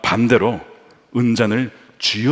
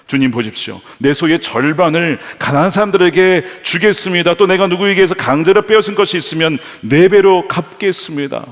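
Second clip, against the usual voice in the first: earnest vow; 6 semitones higher, 6 dB louder than usual. Acted. Zacchaeus's vow.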